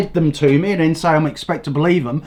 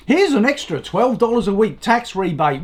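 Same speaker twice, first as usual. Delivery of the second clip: mocking the new guy; 4 semitones higher than usual. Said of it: "the new guy ... going".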